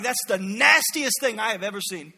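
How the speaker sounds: loud, disgusted refusal; indignant outburst. Retold or imitated. Naaman refuses the Jordan River, loud disgusted outburst. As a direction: flip out at the dirty river. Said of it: "like, flips out".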